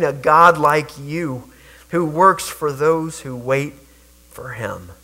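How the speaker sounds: measured, reverent Bible reading; scripture reading. Acted. Pastor reading Isaiah to the congregation, reverent and measured. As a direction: read the verses with reverence.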